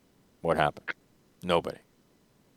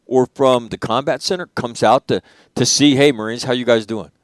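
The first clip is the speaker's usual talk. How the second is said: raised, impassioned retelling of the rant; a commander hears a furious Marine's complaint, raised and heated; heated retold rant; 4 semitones higher than usual. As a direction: let the old anger come back up as you tell it.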